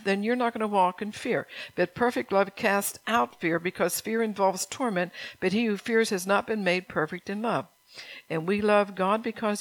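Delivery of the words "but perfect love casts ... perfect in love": scripture reading. Acted. Pastor reading the verse to his flock, measured. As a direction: read the verse with weight.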